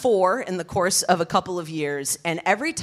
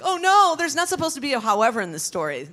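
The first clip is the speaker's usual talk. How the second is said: high startled cry of dismay; 7 semitones higher, faster than usual. Retold or imitated. Telling the principal's call, she squeaks in dismay. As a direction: recoil at the bad news, voice jumping up.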